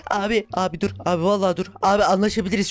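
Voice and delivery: mock pleading. Begging the mob to stop.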